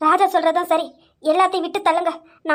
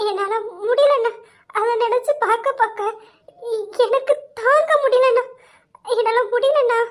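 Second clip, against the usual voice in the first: anguished, sobbing plea; tearful. Acted. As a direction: choke it out through tears, breaking down. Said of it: "அம்மா அழாதீங்கம்மா". (அழுதுகொண்டே, தாங்க முடியாத வேதனையில்)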